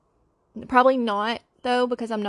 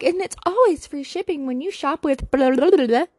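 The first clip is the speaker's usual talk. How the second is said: mock ad read; 3 semitones higher, 4 dB louder than usual. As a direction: lively parody of a shopping ad. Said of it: "not one of those, like".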